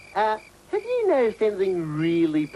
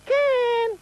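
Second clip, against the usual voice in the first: calling out; 10 semitones higher, much slower than usual. Acted. Searching, calling for lost Ken.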